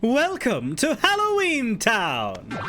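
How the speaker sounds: slow, high theatrical welcome; grand showman voice. Acted. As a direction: announce it like a showman host.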